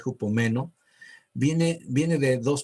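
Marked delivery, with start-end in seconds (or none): 0.0-0.7 "hupomeno" stressed on the E, hu-po-ME-no; acento en la E. Shown as a demonstration. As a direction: land on the E of "me" in "hupomeno". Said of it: "con acento en la E". ("hupomeno" acentuado en la E)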